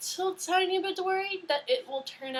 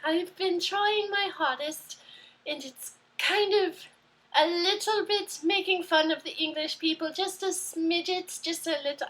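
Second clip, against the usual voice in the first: British accent; 5 semitones higher than usual. Shown as a demonstration. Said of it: "talk in a British accent".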